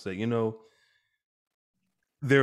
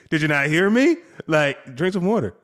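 louder, higher, did you not hear me; exasperated demand; 7 semitones higher, 6 dB louder than usual. Retold or imitated. Father repeats order, son ignored him, exasperated. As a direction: push the order again, fed up.

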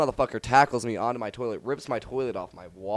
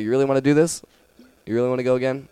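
loud, higher, rising threat question; retold challenge; 5 semitones higher, 11 dB louder, faster than usual. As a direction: act out daring someone to fight. Bigger opponent challenges him to refight.

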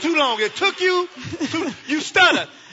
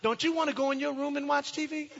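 put-on coaxing child; 9 dB quieter than usual. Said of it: "Landon says".

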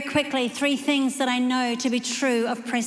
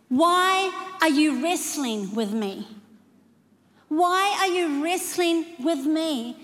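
slow, higher, insistent questioning; God confronting us; 4 semitones higher than usual. Acted. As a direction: press each question slowly as God. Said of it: "he looks at us and he says".

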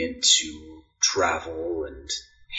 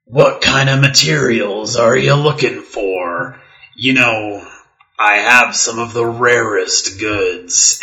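husky merchant voice; 2 semitones higher, 5 dB louder than usual. Acted. Plays the merchant Sharon.

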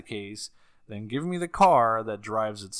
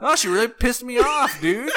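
higher, laughing through the words; 11 semitones higher, 6 dB louder than usual. Real, not acted. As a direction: laugh while complaining.

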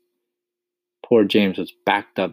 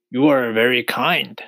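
higher, louder centipede voice; grateful centipede; 5 semitones higher, 5 dB louder than usual. A narrator's reading. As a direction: thank him as a storybook centipede. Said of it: "the centipede said".

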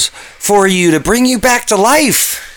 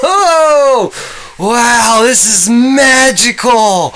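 excited; 3 semitones higher, much slower than usual. Acted. Floating through space.

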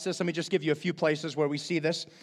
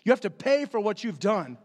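voicing God. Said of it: "God's saying".

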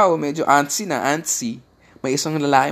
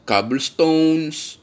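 slow drawn-out; 4 semitones higher, much slower than usual. Real, not acted. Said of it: "drawn-out word".

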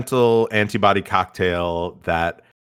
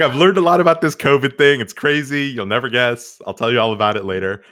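put-on giddy kid voice; 6 semitones higher than usual. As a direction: gush like a kid after a field trip. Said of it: "He's like".

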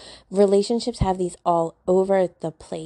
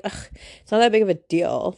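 put-on dismissive dude voice, Valley Girl style. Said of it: "you like my, like, Valley Girl dude voice?".

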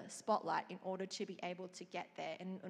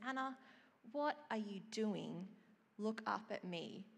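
smiling gentle voice; 3 dB quieter than usual. Retold or imitated. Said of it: "a beautiful smile in his voice".

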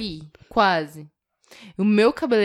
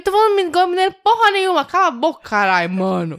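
high, loud, fast mock outburst; retold cursing; 9 semitones higher, 5 dB louder than usual. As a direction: re-enact telling someone off, heated and louder. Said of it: "eu xinguei ele". (xingando de volta, alto e acelerado)

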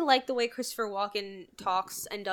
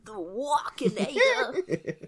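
whispered laugh; much slower than usual. Real, not acted.

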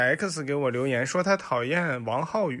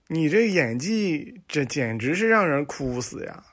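sarcastic critic. Acted. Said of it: "一个观众朋友给他回复说".

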